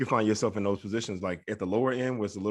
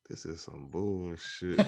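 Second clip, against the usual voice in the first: amused inner thought; 3 semitones lower, 4 dB quieter, much slower than usual. Retold or imitated. Inner thought in boring review.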